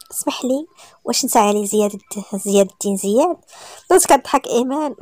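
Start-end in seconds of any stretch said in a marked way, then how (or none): 0.1-3.4 a hint of a thin, imitated woman's voice; mock thin voice. Man teasing the woman by copying her accent, mock thin voice. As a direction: lightly mimic her tone. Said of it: "كيقلد اللهجه ديالها بصوت رفيع".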